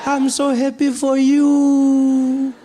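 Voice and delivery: high, slow, delighted granny voice; lightly voiced granny beaming with pride; proud grandmother. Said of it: "And she's like".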